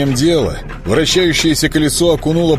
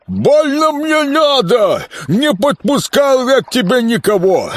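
grumbling swamp creature; 13 semitones higher than usual. Acted. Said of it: "проурчал Колоброд".

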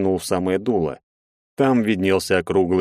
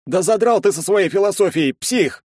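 much higher, louder exasperated shout; angry outburst; 12 semitones higher, 3 dB louder than usual. A narrator's reading. Andrey yells at the philosophising friend. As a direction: snap at him in exasperation.

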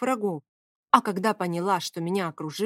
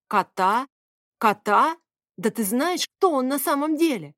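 roaring; 4 semitones higher than usual. Acted. Favius roars in disbelief at the woman about her cat. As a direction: roar in disbelief. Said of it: "взревел Фавий".

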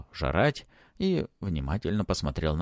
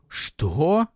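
higher, sharp startled cry; indignant outburst; 9 semitones higher, 4 dB louder than usual. Acted. Ant bristling at Matvey's words, higher. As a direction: bristle up at once. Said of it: "вновь вздыбился Ант".

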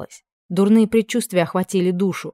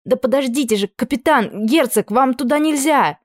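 urgent protest; 8 semitones higher, 4 dB louder than usual. A narrator's reading. Squire trying to stop captain.

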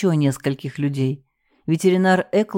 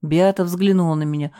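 plain reading voice

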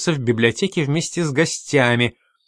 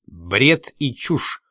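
slow, grating through the teeth; through gritted teeth; much slower than usual. Acted. The stockbroker dismisses the accusation, slow through gritted teeth. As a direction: grind out the dismissal very slowly. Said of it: "сквозь зубы проскрипел фондовый брокер".

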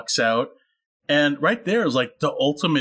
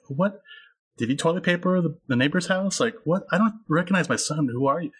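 mock disbelief; 4 semitones higher than usual. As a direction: lightly imitate a bewildered, questioning mother. Acts out mother's baffled reaction.

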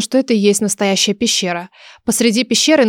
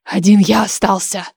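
put-on lightly grumbling old man; displeased grumble. A narrator's reading. Old oracle, last mentalist left, grumbling. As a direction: grumble like a lonely elder. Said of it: "недовольно пробурчал голос".

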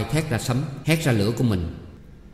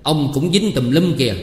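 a mild irritated retort, slightly raised; snapping back; 4 semitones higher, 4 dB louder than usual. Acted. Man brushes off the official and snaps back, mildly irritated. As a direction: snap at him to look at himself. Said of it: "gắt lên".

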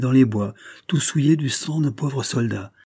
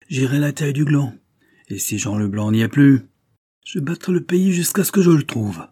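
rising, louder and higher, swearing to hunt him down; vengeful vow; 4 semitones higher, 4 dB louder than usual. Acted. Brigadier over his dead comrade vowing revenge, loud and rising. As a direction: build to a high, loud oath of revenge.

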